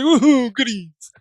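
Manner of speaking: high, excited voicing of the dog; dog's voice. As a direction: speak for the dog like it's thrilled. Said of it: "He's like".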